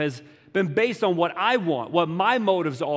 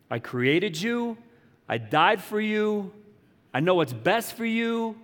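earnest appeal; 5 semitones higher, slower than usual. Acted. Voices God's appeal to the listener.

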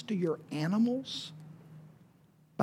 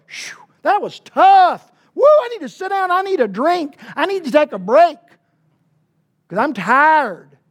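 high, loud hammed-up weariness; mock exhaustion; 9 semitones higher, 8 dB louder than usual. Preacher joking that the miracle was hard work, hammed-up tired voice. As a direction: play worn out to make the joke land.

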